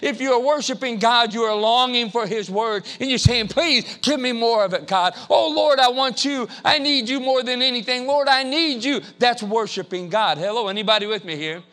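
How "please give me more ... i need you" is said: high, loud pleading prayer; a pleading prayer, pitched high; fervent plea. Acted. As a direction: cry out to God with longing. Acted prayer of longing.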